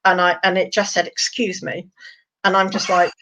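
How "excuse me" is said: softly put-on posh accent. Bearded dragon politely interrupting the drinkers, lightly posh voice. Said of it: "this really posh voice".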